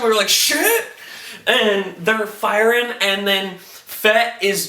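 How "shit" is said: very high, rising startled squeal; shocked viewer reaction. Retold or imitated. Reviewer imitating himself and girlfriend watching, shocked. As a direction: re-enact a shocked couch reaction. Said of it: "had the exact same reaction".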